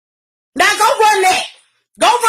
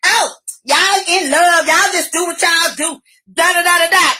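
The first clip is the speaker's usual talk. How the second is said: mocking imitation. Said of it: "stupid motherfuckers talking about".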